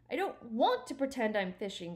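mildly desperate acted cry. Stuart refusing Harriet's fishing idea, mildly desperate. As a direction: protest with a touch of desperation. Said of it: "cried Stuart desperately".

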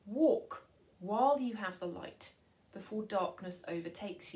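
solemn reading of a Bible verse; measured, solemn Bible reading; scripture reading. Acted. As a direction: read it like scripture. Reads Bible passage in assembly.

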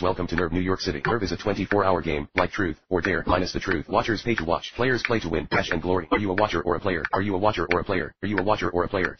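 even, machine-like announcer; computer voice. Acted. Game video greeting new users, flat computer voice. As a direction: read it like an app's promo voice. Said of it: "Computer voice".

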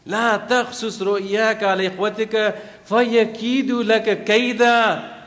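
fast, measured Quranic recitation; quick devotional recital of scripture. Acted. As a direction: recite the verse in flowing Arabic cadence. Recites verse.

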